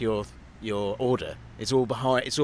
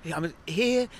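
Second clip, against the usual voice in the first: hammed-up Irish accent; imitated Irish accent; 7 semitones higher than usual. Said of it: "Can you do it in the accent?".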